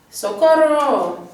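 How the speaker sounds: high, slow, loud hammed-up wail; playful pretend plea, drawn out and loud; mock cry for help. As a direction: call out for rescue like a mock damsel in distress. Section title played as a cry for help.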